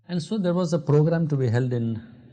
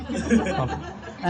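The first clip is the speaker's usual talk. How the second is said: laughing; 4 semitones higher than usual. Real, not acted. Laughing at the rude doctor.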